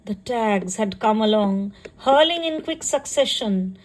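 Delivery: measured poetry reading with pauses between phrases; poem recitation. Acted. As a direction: recite it line by line, lingering on phrase endings. Recites her own poem.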